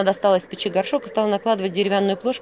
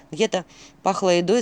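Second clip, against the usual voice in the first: ordinary delivery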